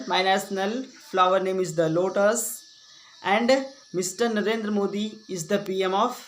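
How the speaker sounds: slow, deliberate recitation; model school speech. Shown as a demonstration. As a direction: recite it phrase by phrase as a stage speech.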